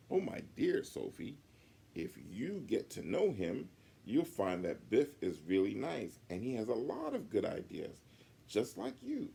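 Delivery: a teacher soothing an upset pupil; kindly teacher owl. Acted. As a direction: reassure Sophie gently. Miss Hoot teacher voice.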